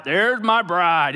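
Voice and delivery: loud, slow proud announcement; big, drawn-out call; big bold mentor. Retold or imitated. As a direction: announce your bride to all around. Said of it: "He talked like this too".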